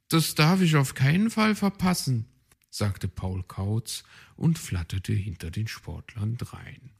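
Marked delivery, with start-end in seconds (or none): 0.1-2.3 eager bird voice. Acted. Paul Kautz eager.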